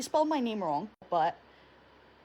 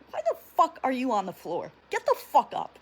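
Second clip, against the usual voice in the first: retold angry yell; 3 semitones higher, 3 dB louder than usual. Mother in labour yelling at fainted father, mock furious. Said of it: "she was not happy with him".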